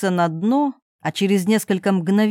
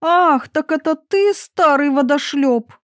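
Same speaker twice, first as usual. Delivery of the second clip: put-on lightly raised young princess voice; a hint of a scornful young princess; 6 semitones higher, 3 dB louder than usual. Princess mocking the frog, lightly higher.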